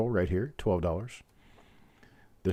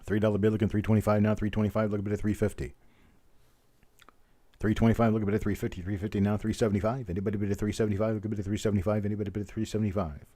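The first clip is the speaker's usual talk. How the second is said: rapid auctioneer chant; frantic trading floor shouting; faster than usual. Acted. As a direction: rattle off the bids like an auctioneer. Runs a coin roll auction.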